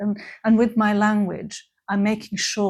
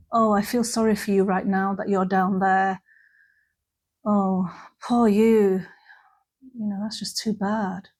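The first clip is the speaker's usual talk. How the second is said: pitying. Shown as a demonstration. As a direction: look down on them with pity. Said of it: "Pity is, I see you and I say".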